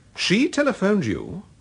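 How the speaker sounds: surprised, taken aback, very high-pitched voice. Hearing that Mr. Clayton got a call from Mrs. Milbourne, someone reacts, surprised. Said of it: "You sound surprised".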